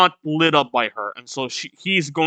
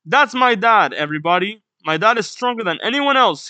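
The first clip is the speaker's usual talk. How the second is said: higher-pitched, lightly acted proud kid; excited boasting; 3 semitones higher than usual. Colon telling everybody about dad, mildly acted excited boasting.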